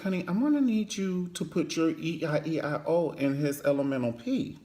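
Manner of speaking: high, sing-song mock seduction; mock sultry mom.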